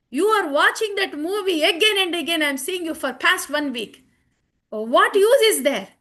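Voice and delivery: animated, emphatic reproach; mock scolding. Devotee challenges friends about watching movies, animated scolding.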